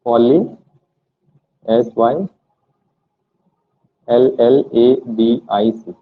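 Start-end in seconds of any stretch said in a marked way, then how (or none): 1.7-5.9 slow letter-by-letter spelling. Shown as a demonstration. Teacher dictating spelling to students, slow. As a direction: spell each letter out slowly, pausing. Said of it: "spelling out polysyllabic".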